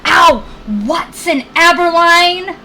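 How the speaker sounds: loud, high full-name scolding; scolding yelp. Real, not acted. Owner yelping and scolding the puppy that bit her leg. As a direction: call the dog out by full name.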